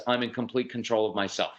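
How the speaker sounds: low, quiet, composed; calm control. Shown as a demonstration. Parent showing kids self-control, calm. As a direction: say it with settled assurance. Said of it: "That is so calming to your kids".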